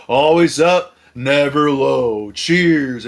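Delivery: retold drunken toast. Drunk guy toasting everyone at McDonald's, mock-rousing toast. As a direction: imitate a man toasting the room.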